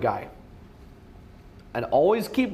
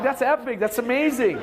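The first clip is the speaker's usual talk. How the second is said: cheering; 6 semitones higher than usual. Retold or imitated. Cheering girlfriend on.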